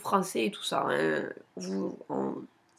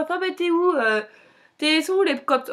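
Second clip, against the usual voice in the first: surprised friend; 7 semitones higher, 3 dB louder than usual. Retold or imitated. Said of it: "je rencontre les trois Espagnols".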